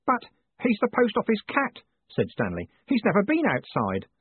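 put-on high, anxious young clerk; a boy begging about his cat; pleading boy voice. A narrator's reading.

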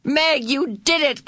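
high-pitched, drawn-out cheer; excited shout. A narrator's reading. Calvin cheering Meg for saving Charles, excited shout. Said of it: "Calvin shouted".

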